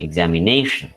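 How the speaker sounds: examination with the weight on the NA syllable; examination as one word, main stress on NA. Shown as a demonstration. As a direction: lean on NA in examination, then let it fall. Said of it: "How will it be pronounced?".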